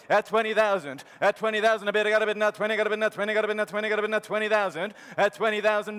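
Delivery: fast rolling auction chant; auctioneer. Real, not acted. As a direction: keep the bids rolling like an auctioneer. Auctioneer calling bids.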